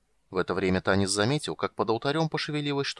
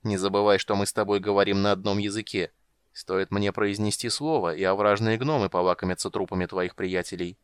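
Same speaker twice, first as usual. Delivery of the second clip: mocking. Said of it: "издевалась Хисант".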